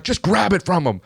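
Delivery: high-pitched mock insistence; exasperated order. Retelling her repeated, impatient order.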